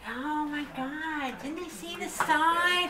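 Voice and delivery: a hammed-up Southern busybody fussing over a sign; imitating a Southern woman alarmed at kids in a tree, high and loud; Southern accent. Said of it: "My best Southern accent".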